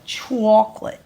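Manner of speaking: chocolate said as choclat with a New York accent; mock New York accent. Shown as a demonstration. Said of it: "That's how people up north in my head".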